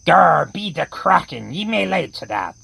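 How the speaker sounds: a pirate taking offence at being called scurvy; pirate growl. Acted. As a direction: snarl it like a hammy buccaneer. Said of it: "the ones with the terrible accents".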